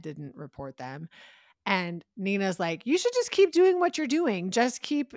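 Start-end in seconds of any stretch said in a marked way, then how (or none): 2.9-5.1 high, loud, insistent retold urging; pitched-up mock encouragement; emphatic urging. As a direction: imitate someone pushing hard to keep going. Mimics Nina egging them on.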